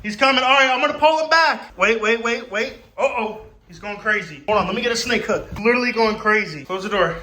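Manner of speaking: high, loud and urgent; panicked. Real, not acted. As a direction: shout in real alarm. Dark room, snake charging.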